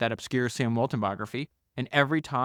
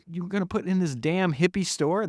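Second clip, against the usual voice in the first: higher-pitched mock incredulity; incredulous objection; 6 semitones higher than usual. Conservative businessman challenging the hippie store, mock incredulous. Retold argument in business meetings.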